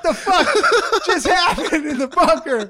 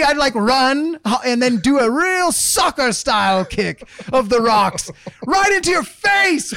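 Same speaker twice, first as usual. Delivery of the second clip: fired-up rant. Acted. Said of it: "I've never seen him so fired up".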